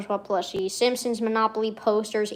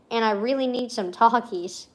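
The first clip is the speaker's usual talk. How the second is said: deliberate rereading. Real, not acted. Streamer rereading own old journal line, deliberately. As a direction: savour each word as you reread.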